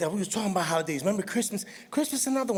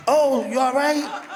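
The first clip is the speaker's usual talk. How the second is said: mock concern; 5 semitones higher, 7 dB louder, slower than usual. Fake concern to tripped kid.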